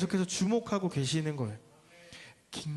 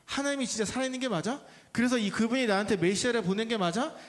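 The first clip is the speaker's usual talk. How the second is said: mildly sceptical questioning, pitched up; doubting; 4 semitones higher than usual. Acted. Simon wonders if God is really alive, mildly doubting. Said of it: "그런 의심하는 마음으로 나왔어요".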